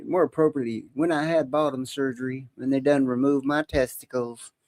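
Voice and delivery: lightly voiced Southern girl; a touch of girly Southern talk; girly Southern drawl. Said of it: "it was a little girly thing about me".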